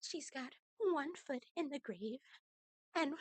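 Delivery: mimicking fake crying. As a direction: imitate her fake tearful whine. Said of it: "she's saying".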